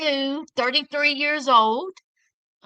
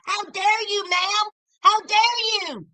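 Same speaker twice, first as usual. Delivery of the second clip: indignant; 4 semitones higher than usual. Real, not acted. Scolding the mother.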